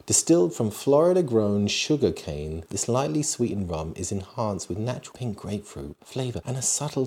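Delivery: measured ad-copy read. Acted. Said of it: "I like your, uh, your reading voice".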